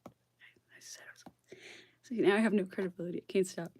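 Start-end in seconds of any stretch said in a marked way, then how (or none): 0.1-1.3 whisper. Real, not acted. Trails off catching herself.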